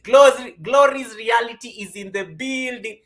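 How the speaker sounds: high, loud, slow announcement; excited shout. Real, not acted. Streamer announcing a viewer to the chat, loud and excited. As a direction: call her in like a hype host.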